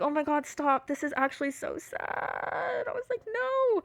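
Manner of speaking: high, thin whine of pity; half-laughing, squeal it out in exaggerated dismay; mock wailing. Reacting to her old messages, high mock-wail.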